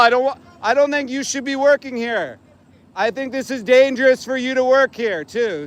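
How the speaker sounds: earnest call-out in a dispute. Real, not acted. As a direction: plead your case to an angry opponent. Arguing back across at angry worker.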